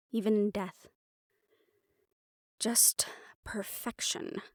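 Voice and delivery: a slow reverent whisper on the final word; hushed whisper. Acted. Reading out the brother's ideal of a perfect world, whispered slowly. Dramatic close to journal reading.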